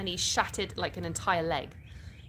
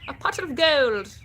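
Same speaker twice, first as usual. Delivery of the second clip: loud, drawn-out, higher-pitched thanks; delighted exclamation; 5 semitones higher, 7 dB louder, slower than usual. Real, not acted. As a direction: announce the gift slowly and grandly. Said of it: "I need to do an Irish accent for that".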